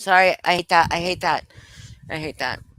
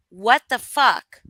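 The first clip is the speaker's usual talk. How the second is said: slow, louder mock disbelief; 3 semitones higher, 6 dB louder, slower than usual. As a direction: draw it out, punching it in disbelief. Imagined reaction to a friend's recording.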